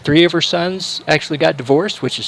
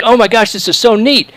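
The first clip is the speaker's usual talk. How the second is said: thrilled tourists; 7 semitones higher than usual. Retold or imitated. Tourists thrilled at royal contact.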